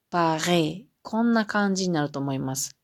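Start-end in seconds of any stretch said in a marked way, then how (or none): 0.1-0.9 "パリ" with a French throat R, "Pa-ʁi"; French Paris. Shown as a demonstration. Teacher demonstrates Paris in French. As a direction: roll "パリ" back in the throat like French. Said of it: "それをフランス語で言うと".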